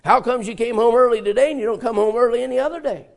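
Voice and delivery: accusing question. Retold or imitated. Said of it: "Or you can say".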